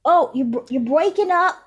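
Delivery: high, loud mock bad-connection voice; breaking up. Ancestor complaining as the spirit connection breaks up. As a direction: play the line cutting out. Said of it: "it's going fuzzy".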